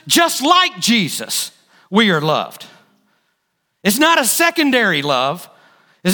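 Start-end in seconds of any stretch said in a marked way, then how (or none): 0.1-1.5 JUST LIKE JESUS slow, each word leaned on; pointed emphasis. Shown as a demonstration. Preacher shows the congregation the emphasis, slow weight on each word of "Just like Jesus". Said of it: "You hear the emphasis?".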